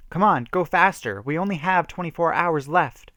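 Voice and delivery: high, loud push to speed up; urgent shout. A narrator's reading. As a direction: yell at the driver to hurry. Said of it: "shouted Rachel".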